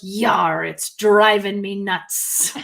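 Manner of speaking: slow pirate growl. Retold or imitated. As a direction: drag it out like a pirate. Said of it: "the pirate goes".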